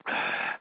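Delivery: short breathy exhale; sigh. Pretend. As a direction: let out a settling breath. Trying to calm himself.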